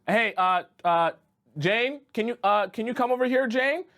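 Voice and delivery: urgent call across the sand; calling for help. Acted. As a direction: call Jane over, getting anxious. Calling friend while sinking.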